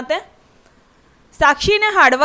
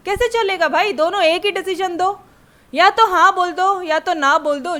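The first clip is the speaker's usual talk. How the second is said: exasperated; 5 semitones higher than usual. Retold or imitated. Exasperated child pleading.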